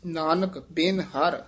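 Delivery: brief halt after ਹਰ; pause after ਹਰ. Shown as a demonstration. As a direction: stop briefly at ਹਰ, then go on. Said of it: "ਇੱਥੇ ਠਮਕ".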